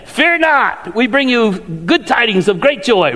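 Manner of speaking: lightly voiced herald angels; angels' proclamation. Angels to the shepherds, lightly voiced proclamation. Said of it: "what do they say to the shepherds".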